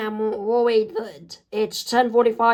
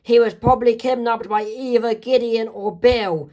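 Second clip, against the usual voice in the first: alarmed; 4 semitones higher than usual. Acted. Wendy alarmed about Dipper.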